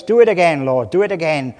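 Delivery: loud pleading cry to the Lord; retold shout. The prophet on the mountaintop shouting to God, fervent loud plea. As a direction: call it out with fervour. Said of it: "And he shouts".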